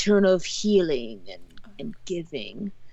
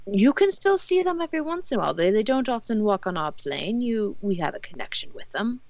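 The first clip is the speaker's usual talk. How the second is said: NPC voice; 4 semitones higher than usual. Acted. NPC voice, high pitched.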